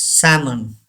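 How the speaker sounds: salmon with the L silent, "SAM-un"; salmon as "sammun". Shown as a demonstration. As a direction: say salmon with no L sound at all. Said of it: "L is silent here".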